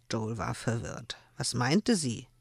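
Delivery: lebhaft vorgelesene Erzählung, die Figuren gespielt; erzählt die Szene wie beim Vorlesen; Romanlesung. Acted. Autorin liest aus ihrem Roman. (Autorin liest den Zuhörern ihr Buch vor)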